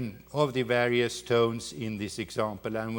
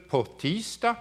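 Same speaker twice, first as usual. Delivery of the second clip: "tisdag" punched higher on its first syllable; stress on TISDAG; 6 semitones higher than usual. Shown as a demonstration. Lecturer demonstrates what the actor was asked, stress on "tisdag". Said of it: "stressing the, this syllable".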